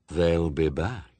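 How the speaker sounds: low, slow figure of Death; solemn Death. A narrator's reading. Death answering a question, solemn low voice. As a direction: intone it slowly and low.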